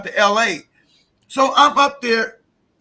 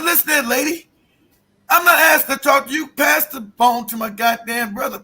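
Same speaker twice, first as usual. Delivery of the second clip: angry retort; 3 semitones higher than usual. Retold or imitated. Grieving man to sister-in-law, angry shout. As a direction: snap at her to hand over the phone. Arguing with brother's wife.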